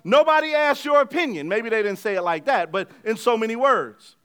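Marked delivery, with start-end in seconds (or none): 0.0-1.5 firm raised parent voice; stern parents. Retold or imitated. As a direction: lay down the law to the kid. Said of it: "mom and dad look at the kid and say".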